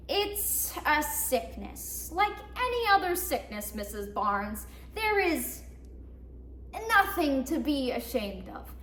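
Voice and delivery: lightly voiced social worker, measured and deliberate; a hint of patronizing reassurance, with careful pauses. Social worker reassuring Missus Barnes, lightly patronizing. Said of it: "That's the social worker".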